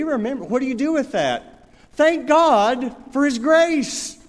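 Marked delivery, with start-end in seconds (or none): 1.9-4.2 emphatic preaching. Real, not acted. Preaching climax.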